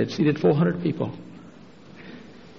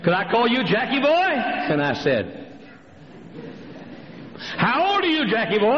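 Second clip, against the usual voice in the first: put-on high, sweet voice to a child; high cooing Jackie boy; cooing lady; 10 semitones higher than usual. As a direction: coo at a little boy.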